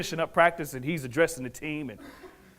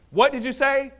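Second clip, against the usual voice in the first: higher-pitched startled question; surprised girl's question; 9 semitones higher, 3 dB louder than usual. Retold or imitated. Girl answering the boy helping her at the machine, surprised. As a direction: ask it high, caught off guard.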